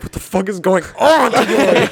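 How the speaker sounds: slow, laughing imitation of a furious friend; laughing mock anger. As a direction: mimic him angry while laughing. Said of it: "You were, you were like".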